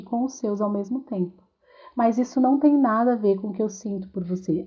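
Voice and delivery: kneel and reassure him gently; tender reassurance. Retold or imitated. Mother comforting crying son, kneeling. (mãe acalma o filho chorando, baixinho e com ternura)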